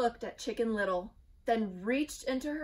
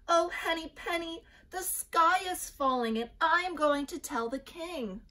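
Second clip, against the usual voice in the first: high, loud and frantic; panicky Chicken Little; 8 semitones higher, 5 dB louder than usual. A narrator's reading. Little chick warns everyone, high and panicked. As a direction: cry the news in alarm.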